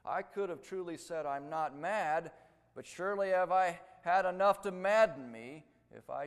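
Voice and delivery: forceful reading of another's anguish; agonized quote. Retold or imitated. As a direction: recite it loudly and emphatically, like a tormented confession. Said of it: "he described this agony".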